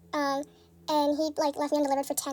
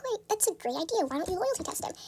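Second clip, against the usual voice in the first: eager; 5 dB quieter than usual. Retold or imitated. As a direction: jump at the friend's plan. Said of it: "And I was like".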